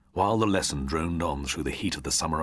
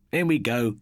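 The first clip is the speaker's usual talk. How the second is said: shouted; 7 semitones higher, 5 dB louder than usual. A narrator's reading. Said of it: "Jeff shouted".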